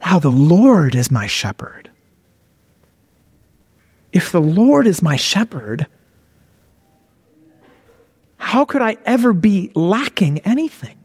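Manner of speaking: wondering aloud with long pauses; musing reflection. Shown as a demonstration. Preacher reflecting on the psalm he just read, musing reflection. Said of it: "is to reflect".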